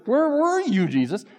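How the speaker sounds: high, loud reproachful cry; grieving sister. Retold or imitated. Sister confronts Jesus about her brother's death, high reproachful cry. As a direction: demand it of Jesus, hurt and accusing. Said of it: "In other words".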